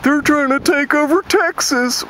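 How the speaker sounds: high mock yell of a panicky redneck; mock screaming redneck. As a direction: screech it like a scared hillbilly. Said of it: "screaming out".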